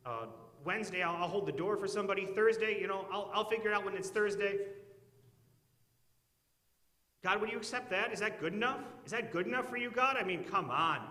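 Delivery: hammed-up desperate deal-maker begging God; bargaining with God. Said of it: "we wouldn't say it like that".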